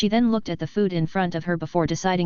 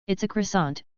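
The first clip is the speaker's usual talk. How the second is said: put-on French accent. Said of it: "with his utmost proficient French accent".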